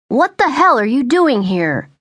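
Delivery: angry mother demands answers from the intruder; demanding. Acted. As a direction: confront him head-on. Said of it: "she demanded".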